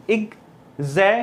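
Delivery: एग्जामिनेशन broken slowly into its syllables. Shown as a demonstration. Teacher breaking a word for students, slow and syllabic. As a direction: spell out एग्जामिनेशन in slow separate beats. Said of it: "अब इसको break करें".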